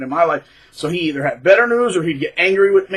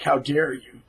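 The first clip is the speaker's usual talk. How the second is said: mock resentful narcissist; 3 semitones higher, slower than usual.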